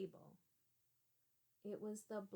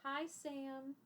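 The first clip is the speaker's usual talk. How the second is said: imitating girl's hello; 6 semitones higher than usual. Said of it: "and she says".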